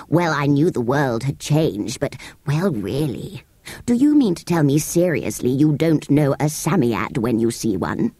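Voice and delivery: astonished sand fairy. Acted. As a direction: drag out the disbelief.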